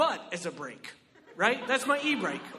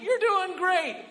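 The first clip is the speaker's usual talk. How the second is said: mock cheery encouragement; 8 semitones higher, slower than usual. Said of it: "He's like".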